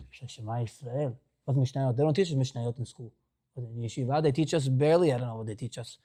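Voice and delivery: put-on a scared boy muttering to himself; panicked boy. Grandson panicking over the Rebbe's test, hushed and worried.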